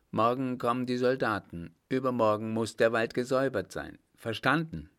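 mildly imperious briefing; commanding emperor. Acted. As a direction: lay down orders that allow no objection. Emperor gives curt orders to mayor.

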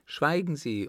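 acted countess silencing him; sharp interruption. A narrator's reading. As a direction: cut him off indignantly. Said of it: "unterbrach sie ihn".

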